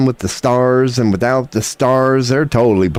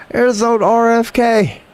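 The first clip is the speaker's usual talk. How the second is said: mock announcer; 12 semitones higher than usual. Mocking entrance announcement.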